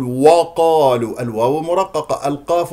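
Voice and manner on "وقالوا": وقالوا with a thick, dark first syllable; wrongly heavy W. Shown as a demonstration. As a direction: darken the و of وقالوا. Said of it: "لا تفخم الواو، تقول". (وقالوا بتفخيم الواو خطأً)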